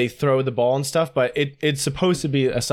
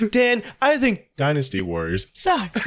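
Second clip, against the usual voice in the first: mock Siri voice line; 2 semitones higher than usual. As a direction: pitch jumping between pasted words. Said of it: "you have a completely different pitch".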